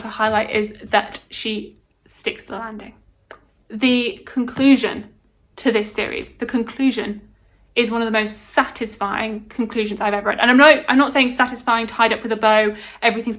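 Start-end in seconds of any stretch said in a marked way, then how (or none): none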